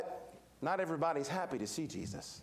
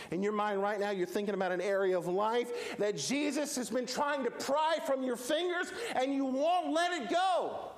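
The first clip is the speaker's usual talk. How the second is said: building preaching intensity; 4 semitones higher than usual. Real, not acted. Preacher confronting those who won't let go, building intensity. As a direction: start level, climb high.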